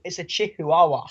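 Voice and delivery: "chihuahua" with the first syllables pulled apart, chi-hu-a-wa; funky chihuahua. Shown as a demonstration. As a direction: play with "chihuahua", sounding out a separate "hu". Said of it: "trying to say chihuahua in funky ways".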